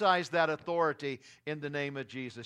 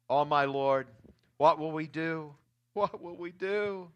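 lower, fading despairing plea; subdued fearful plea; 3 semitones lower than usual. Retold or imitated. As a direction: let the cry sink into hopeless murmur. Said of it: "He cried out to Elisha".

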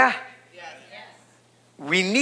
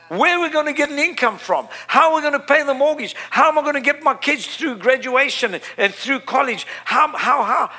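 higher-pitched, flustered worrying; mock panic; 6 semitones higher than usual. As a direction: act out fretting over money, questions tumbling out. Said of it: "We panic".

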